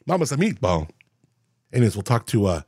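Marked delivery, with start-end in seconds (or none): 0.1-0.9 playful Italian-accented "Mama's a Meatball"; mock Italian accent. Shown as a demonstration. Host showing how the restaurant name sounds in his head, mock Italian accent. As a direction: put on a light singsong Italian accent. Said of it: "in my outward voice that way".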